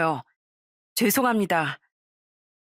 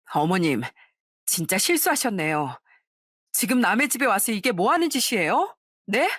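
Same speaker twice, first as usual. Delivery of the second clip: retold angry outburst. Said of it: "너무 화가 나 소리를 치던".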